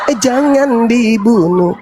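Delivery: slow mock devil pleading; scheming devil. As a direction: insincere drawn-out plea. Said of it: "cara siasat iblis itu gitu". (iblis pura-pura membela, pelan mendayu)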